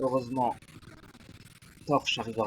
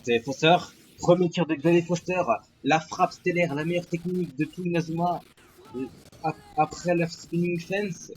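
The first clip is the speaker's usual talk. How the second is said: excited sports commentary; 4 semitones higher, 4 dB louder than usual. Acted. Live play-by-play of a shot.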